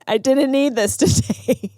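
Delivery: fed-up complaint breaking into a laugh; mock exasperation with a laugh; exasperated, laughing. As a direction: laugh through the gripe. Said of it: "You ever notice when you say that".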